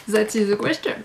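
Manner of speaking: English with a French accent; bad English accent. Real, not acted. Amused vlogger quoting a famous line, bad English accent. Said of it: "mon accent anglais est pourri".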